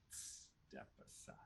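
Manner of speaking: breathy hushed caution; whispered warning. Acted. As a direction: hush the warning, slowly. Creature warns the party.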